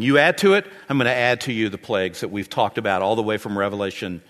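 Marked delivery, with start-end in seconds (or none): 0.0-2.2 God's stern warning. Retold or imitated.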